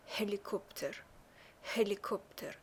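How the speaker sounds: هلیکوپتر with a breathed Arabic-like ه at the start. Shown as a demonstration. Teacher modelling the letter ه for learners, هلیکوپتر with Arabic-like h. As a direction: say هلیکوپتر, opening on an Arabic-style h. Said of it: "شبیه اون ه عربیه".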